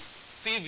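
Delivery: "sieve" slowly, with a long ee; long vowel. Shown as a demonstration. Teacher isolating the second syllable of receive, long vowel. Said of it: "this sound here is a long vowel".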